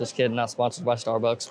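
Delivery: soft chuckle through the words, owning up to the joke; laughing it off. Real, not acted. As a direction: laugh the correction out lightly. Jokes about a fake sponsor.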